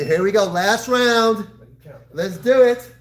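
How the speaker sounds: loud rallying call to start; sharp martial arts commands. Real, not acted. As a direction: fire up the class, slow and loud. Coach calls last round.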